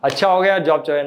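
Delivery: brightly relieved, taking the loss cheerfully; happy. Acted. Teacher acting a man glad his job is gone, cheerful. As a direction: greet the news as a lucky break. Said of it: "एक है खुश".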